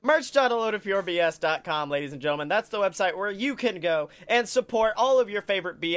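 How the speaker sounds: upbeat sponsor read. Acted. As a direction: pitch the merch like an ad. Reads merch ad.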